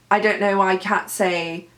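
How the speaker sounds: attempted British accent, long ah in "can't"; British dialect. Shown as a demonstration. Actor showing off the dialect for her play, tentative British accent. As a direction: try an unpolished British accent. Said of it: "not claiming to be good at this dialect".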